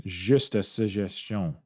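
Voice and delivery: "Juste a suggestion" slowed, "Juste" with a French zh, "suggestion" nasal French ending; accent québécois, lent; Quebecois accent. Shown as a demonstration. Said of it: "Quebecois accent".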